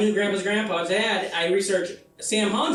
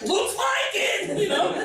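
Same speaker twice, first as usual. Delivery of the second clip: laughing drawl; 10 semitones higher, slower than usual. Retold or imitated. Wry reply to mom.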